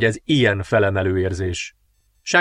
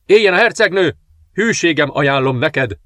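higher, louder cry of loyalty; loud acclaim; 4 semitones higher, 3 dB louder than usual. Acted. General hails the princess to keep his position, shouting. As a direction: hail her to save your post. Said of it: "kiáltani hangosan".

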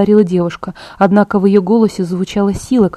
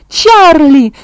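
loud, high cry of alarm; shouting; 7 semitones higher, 7 dB louder than usual. Acted. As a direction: cry out the father's name in panic. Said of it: "закричала я".

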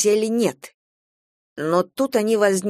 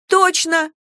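high, loud burst of discovery; exclaimed; 10 semitones higher, 4 dB louder than usual. A narrator's reading. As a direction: she suddenly finds the answer. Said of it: "воскликнула девушка". (практикантка радостно восклицает)

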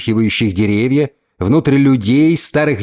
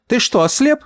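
higher, contemptuous mother; stern mother; 8 semitones higher than usual. A narrator's reading. Mother scolds the uncle over the sleeping girl. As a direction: scorn him, keep him from the body.

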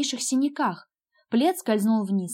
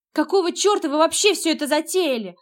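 higher, louder angry shout at her brother; 7 semitones higher, 5 dB louder than usual. A narrator's reading. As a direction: yell the blame at him. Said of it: "закричала я на Ника".

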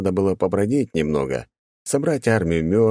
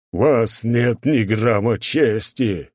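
shouting; 4 semitones higher, much slower than usual. Acted. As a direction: yell into the empty house. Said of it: "крикнул здоровяк куда-то в пустоту".

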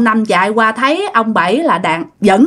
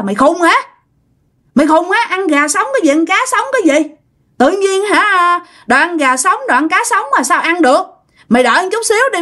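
mildly exasperated, higher-pitched scolding; ông Năm annoyed; 5 semitones higher, faster than usual. Acted. Older brother telling off his hollering sibling, annoyed. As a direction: scold him in a raised pitch, easing toward the end. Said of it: "cái ông cũng bực lắm".

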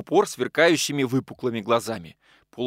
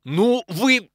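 much higher, loud menacing bark; threatening shout; 10 semitones higher, 6 dB louder than usual. Acted. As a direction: warn him off, ready to strike. Угрожающий жест, ссора.

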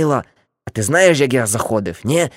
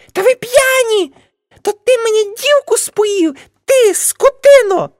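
scolding aunt; 9 dB louder than usual. Acted. Aunt Nastia yelling at the drunk smokers, high shrill scolding. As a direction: shriek at them like an outraged auntie.

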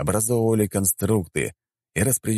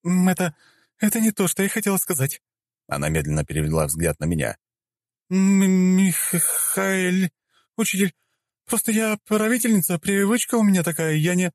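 высокий сбивчивый голос; оправдывайся перед учителем; испуганное оправдание; 14 semitones higher than usual. Acted. (высокий испуганный лепет)

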